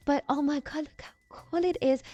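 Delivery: high, gushing delight; excited. Real, not acted. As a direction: show off something you love. Showing off her new build tool.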